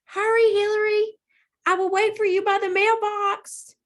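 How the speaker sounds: very high, small voice; dragonfly calling as she flies off; tiny dragonfly voice. A narrator's reading. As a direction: float it in from outside. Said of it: "Destiny's tiny voice floated".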